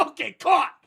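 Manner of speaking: high, loud laugh through the words; laughing admission. Real, not acted. Streamer caught out by friend, laughing. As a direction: laugh it out, busted.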